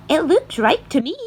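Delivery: loud, high sudden line; breaking the silence. A narrator's reading. Aunt Spiker breaking the silence about the peach. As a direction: cut through the stillness. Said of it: "breaking the silence".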